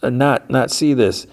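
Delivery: put-on high, pleading old woman's voice; Bogdana pleading. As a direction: pitch it way up, begging him to see sense. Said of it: "And she's like".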